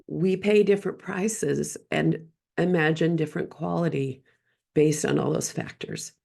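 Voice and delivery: slightly hoarse, scratchy throat. Real, not acted. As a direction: talk through a scratchy throat. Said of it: "my scratchy voice".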